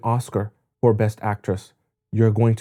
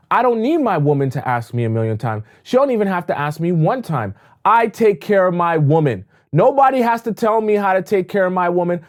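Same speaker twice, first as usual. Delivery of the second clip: confident man; 5 semitones higher than usual. Retold or imitated. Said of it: "That's ego attached to that".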